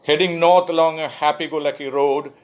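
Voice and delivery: poem recitation. Acted. Poet reading "Expectantly" to an online audience, lifted recitation. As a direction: declaim the opening images phrase by phrase.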